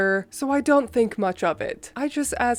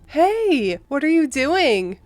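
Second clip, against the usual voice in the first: chirpy higher mom voice; mom's voice; 4 semitones higher, slower than usual. Retold or imitated. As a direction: play the breezy mom calling out of nowhere. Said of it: "Typical phone calls from my mother".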